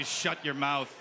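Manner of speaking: mock-stern shut your mouth, stress on mouth; a parent's flat order, "mouth" leaned on; stern hush. Shown as a demonstration. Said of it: "I'll say".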